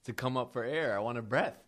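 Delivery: excited blurt. Real, not acted. Listener blurts the punchline.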